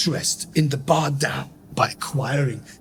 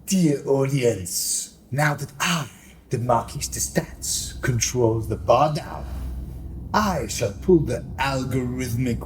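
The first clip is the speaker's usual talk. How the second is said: grandiose villain speech. Acted. Marquis de Stats proclaiming to the audience, lightly grand villain. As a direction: address the audience like a scheming stage villain.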